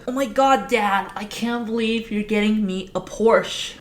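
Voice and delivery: put-on a teenage boy overjoyed about a Porsche; giddy. Sam thrilled his dad is buying him a car, giddy high squeal. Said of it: "All giddy".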